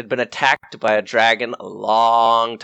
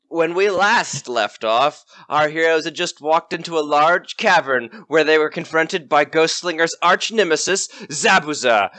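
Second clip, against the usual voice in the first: put-on old radio drama narrator. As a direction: set the scene like an old serial. Game master recaps the story.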